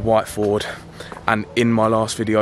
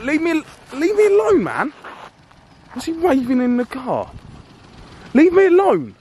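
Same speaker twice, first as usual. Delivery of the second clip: screaming high and loud, pleading and furious at once; frantic shout; 3 dB louder than usual. Acted. Vlogger yelling at driver waving something from his car, frantic shout. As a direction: yell to make him back off.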